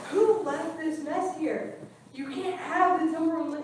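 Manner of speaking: a manager scolding a brahmachari over a mess, stern scolding. Retold or imitated. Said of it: "and she's like".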